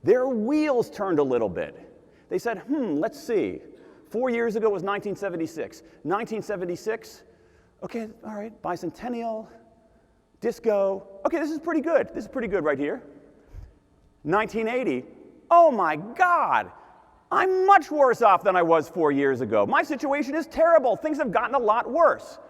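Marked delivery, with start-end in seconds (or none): 2.6-15.0 voter thinking it over. Retold or imitated. Voter mulling over the question. 15.5-22.4 mock dismayed voter. Voter realizes things got worse.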